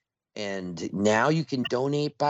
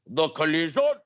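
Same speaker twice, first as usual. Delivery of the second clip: excited fan shout; 3 semitones higher, 4 dB louder than usual. Retold or imitated. Radio host imitates fans greeting them at events, excited shout. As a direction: call it out like a fan spotting a host.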